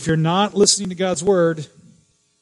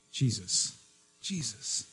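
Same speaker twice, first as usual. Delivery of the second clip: much softer, an inner call to Jesus; silent inner prayer; 4 semitones lower, 12 dB quieter, slower than usual. Shown as a demonstration. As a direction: barely voice it, as if praying in your heart. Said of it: "just speak in your heart and your mind".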